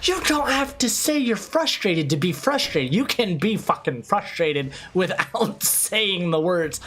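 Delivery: high, then slowing exasperation; retold exasperated rant. Streamer retelling his exasperated lecture to the viewer.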